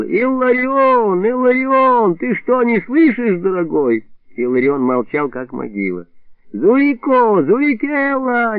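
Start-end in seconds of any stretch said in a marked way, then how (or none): 0.0-4.1 high, drawn-out call across the yard. Acted. Илико calling his neighbour from the road, drawn-out shout. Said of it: "сложил руки рупором и закричал". 6.5-8.6 high drawn-out call. Acted. Илико calling the boy from the road, drawn-out shout. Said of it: "не унимался Илико".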